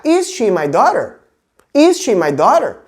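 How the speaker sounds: "Is she my daughter?" with a questioning pitch swing; question intonation. Shown as a demonstration. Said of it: "você pode fazer a entonação da pergunta".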